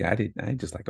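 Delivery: ordinary talk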